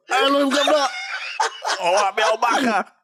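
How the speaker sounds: overdone fake English accent; mock British accent.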